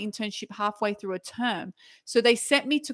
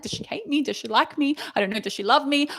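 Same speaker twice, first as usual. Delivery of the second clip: higher-pitched acted questioning; mock anxious wondering; 5 semitones higher than usual. Junior doctor wondering how the boss feels, mock anxious. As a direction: fret aloud in a raised pitch.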